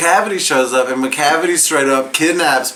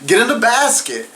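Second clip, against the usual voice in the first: high voice; 8 semitones higher than usual. Retold or imitated. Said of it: "they're like".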